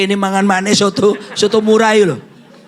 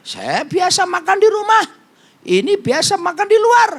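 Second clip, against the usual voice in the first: much higher, singsong comparison; high mock contrast; 12 semitones higher than usual. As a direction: pipe it up teasing the contrast. Contrast homebody vs foodie family.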